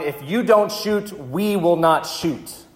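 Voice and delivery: lightly voiced soldier shouting across; German soldiers calling out. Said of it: "the Germans started shouting".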